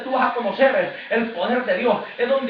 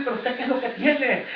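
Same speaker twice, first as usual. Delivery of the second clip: curious onlooker. Retold or imitated. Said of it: "te van a decir".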